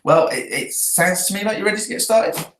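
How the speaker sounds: climbing pitch to a high "started"; question tone. Shown as a demonstration. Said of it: "So you go up at the end".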